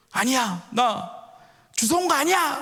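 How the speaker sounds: put-on high, protesting little-boy cry; acted child's yell. Youngest son protesting to his teasing brothers, acted yelling. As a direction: deny it in a rising mock yell. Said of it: "막 이제 소리를 지르기 시작해요".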